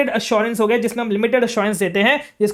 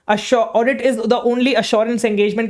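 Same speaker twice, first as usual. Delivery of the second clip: slow dictation; much slower than usual. Shown as a demonstration. Dictating statement for notes.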